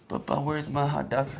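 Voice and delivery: a hint of a sleepy kid's plea; sleepy child. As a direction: imitate a child just waking, asking for food. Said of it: "He's, like, sleeping like this".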